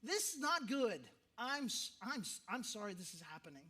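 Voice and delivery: stronger condolence. Shown as a demonstration. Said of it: "be more colorful ... go for it".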